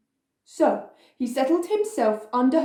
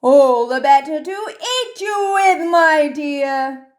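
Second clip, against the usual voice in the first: hungry wolf; 3 semitones higher, 4 dB louder than usual. A narrator's reading. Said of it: "said the wolf".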